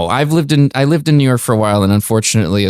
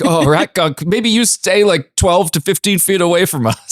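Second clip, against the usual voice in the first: higher, teasing voice; mock disgusted friend; 6 semitones higher than usual. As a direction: push the sick friend away, teasing. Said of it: "as one of us would be like".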